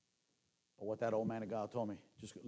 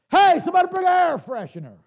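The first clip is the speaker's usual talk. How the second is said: high, loud comic yell; God shouting for an air freshener, high and loud; 20 dB louder than usual. Pretend. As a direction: holler it out in mock disgust. God voice calls out, disgusted.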